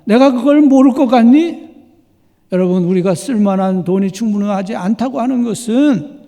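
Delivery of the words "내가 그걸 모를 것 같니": high, loud indignant snap; indignant retort. Retold or imitated. Wife snapping at her friend, loud and indignant. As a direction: fire it back, offended. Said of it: "그 부인이 말했습니다".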